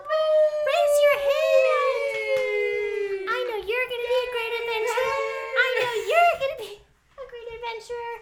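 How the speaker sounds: crying. Acted. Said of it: "I am so sorry. I have allergies".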